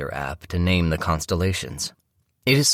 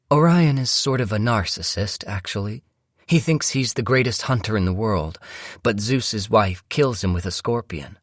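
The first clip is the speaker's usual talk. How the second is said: higher voice for the wife; chatty stargazing wife; 5 semitones higher than usual. Acted. Wife telling her husband Orion's myth, chatty. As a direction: play the wife explaining a myth, pitched up. Wife's voice in story narration.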